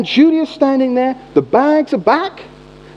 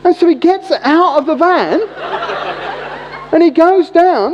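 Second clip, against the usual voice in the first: laughing; 6 semitones higher than usual. Real, not acted. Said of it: "this is absolutely true".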